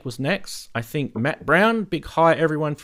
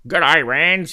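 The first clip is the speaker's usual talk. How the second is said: put-on louder, higher English-trying-to-be-Swiss accent; attempted Swiss accent; 4 semitones higher, 7 dB louder than usual. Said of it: "English, but trying to be Swi".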